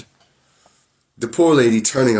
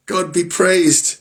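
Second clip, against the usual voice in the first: relieved praise; 9 semitones higher, much slower than usual. Acted. Wife relieved, high and slow.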